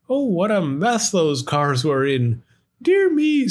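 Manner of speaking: high, shocked "dear me"; storybook dismay. Acted. Sam dismayed at crash.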